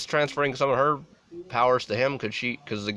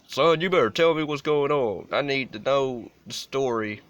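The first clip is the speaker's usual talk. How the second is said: stern Southern pastor demanding answers, a hint of the accent; 4 semitones higher than usual. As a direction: lay on a mild Southern accent, fatherly and firm. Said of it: "I made him Southern".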